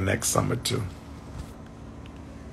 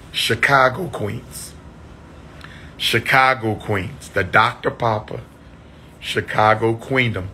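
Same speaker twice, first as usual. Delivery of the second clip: calling out. Real, not acted. Shout-out to Chicago viewers.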